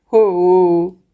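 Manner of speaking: a short sob-like wail; helpless crying. Acted. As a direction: cry out helplessly. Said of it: "रसूला ने बेबसी से रोकर कहा". (बेबसी से रोते हुए)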